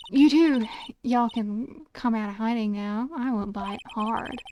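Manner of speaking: a hint of a Southern accent. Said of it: "you're getting a half-assed accent from me".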